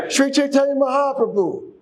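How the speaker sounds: lively congregational cue; enthusiastic. Shown as a demonstration. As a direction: call out the holy name to rouse the room. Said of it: "say it with enthusiasm".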